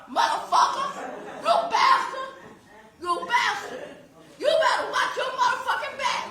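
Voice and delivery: ragged crying fury, spat-out curses; enraged yelling. Real, not acted. Mother curses the defendant across the courtroom, sobbing fury. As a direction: threaten him while sobbing and shaking with rage.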